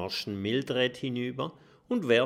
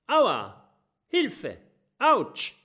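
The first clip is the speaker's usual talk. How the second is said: pained cries; 12 semitones higher, 5 dB louder, much slower than usual. A narrator's reading. Pirates slip and fall.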